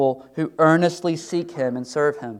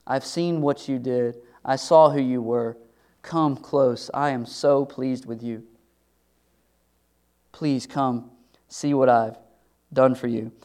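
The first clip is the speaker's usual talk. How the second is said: gentle God voice; 2 semitones lower, slower than usual. Acted. God voiced welcoming the faithful.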